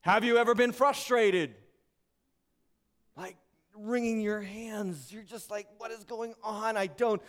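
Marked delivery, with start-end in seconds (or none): 5.8-7.2 mild mock exasperation, slowing at the end; lightly acted helpless frustration. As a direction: play someone wringing their hands. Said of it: "Frustration with life".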